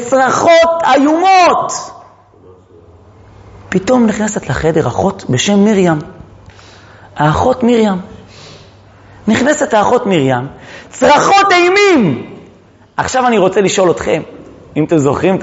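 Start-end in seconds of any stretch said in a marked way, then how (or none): 0.1-1.7 drawn-out, higher cry; screaming emphasis. Shown as a demonstration. Teacher telling class of delivery-room screams, cried out high. 10.9-12.3 high, drawn-out cry; screaming emphasis. Shown as a demonstration. Teacher describing terrible screams in labour, crying it out high.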